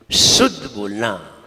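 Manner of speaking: शुद्ध with a long, hissed whistling "sh"; whistling sibilant. Shown as a demonstration. Teacher shows students how to say it, whistling शुद्ध. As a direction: draw out the opening "sh" of शुद्ध, slowly. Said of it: "आवाज देखिए".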